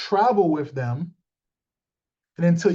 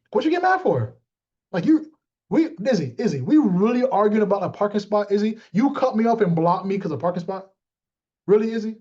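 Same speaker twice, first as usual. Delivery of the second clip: mock angry argument; 2 semitones higher than usual. Confronting Izzy over a parking spot, mock angry.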